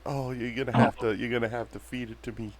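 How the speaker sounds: swooning woman begging the bouncer to feed her the drink; feeble damsel. Acted. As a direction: play weak and helpless, pleading. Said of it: "I just make it like I can't even grab it".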